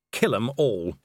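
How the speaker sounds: a hint of a low, raw growl; deep raw voice. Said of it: "A deeper voice, red and raw".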